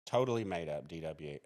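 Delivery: mock dismissal, dropping away at the end; sarcastic denial, leaning on "totally". Real, not acted. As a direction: dryly pretend to write it off as made up. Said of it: "I'm, I'm being sarcastic".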